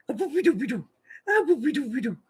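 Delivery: high singsong cooing; silly baby-talk voice. Shown as a demonstration. Grandmother cooing the gas out of the baby, high and silly. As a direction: coo it up high to the baby on the changing table. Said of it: "with a silly little voice".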